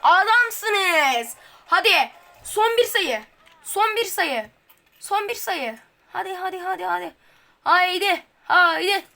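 repeated eager chant; cheering on. Real, not acted. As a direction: pump the team up. Chanting team toward last round. (heyecanlı tezahürat)

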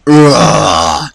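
long demonstrative groan of frustration; frustrated groan. Shown as a demonstration. Gamer showing his mood, drawn-out frustrated groan. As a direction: groan out your mood without words. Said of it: "that describes my mood fully".

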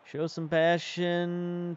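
half-hearted yell, slow and stretched; mock yell. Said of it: "Let's yell and say".

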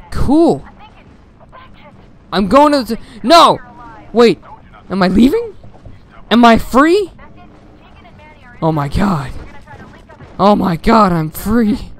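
high, loud excited shouts. Real, not acted. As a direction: yelp with sudden delight. Surprise escape from the level.

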